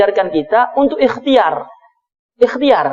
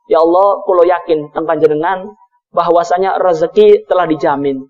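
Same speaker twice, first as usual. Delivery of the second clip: low, steady prayer of trust; acted earnest prayer; 8 semitones lower than usual. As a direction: address God in a lowered, sincere voice.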